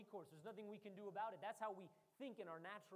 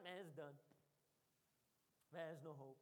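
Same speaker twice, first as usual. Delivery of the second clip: mock despair; 6 semitones lower, 4 dB quieter than usual. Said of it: "He doesn't talk like that".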